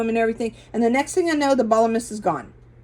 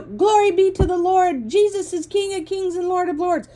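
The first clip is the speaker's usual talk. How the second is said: retold shout out the window; 9 semitones higher than usual. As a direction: belt it out like proclaiming to the sky. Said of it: "I was screaming out the window".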